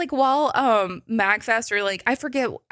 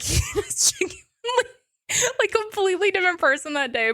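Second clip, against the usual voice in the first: laughing; 12 semitones higher than usual. Real, not acted. Laughing recalling Damien.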